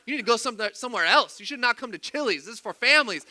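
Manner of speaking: mildly indignant mock scolding; imagined complaint, a touch heated; mad retelling. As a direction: act out sending them away. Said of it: "I'm getting more and more mad".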